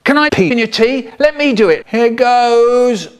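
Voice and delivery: lightly voiced high, squeaky fish; a hint of a silly fish pleading to pee; Michael Rosen fish. As the Michael Rosen fish begging, lightly high. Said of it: "I became the Michael Rosen fish".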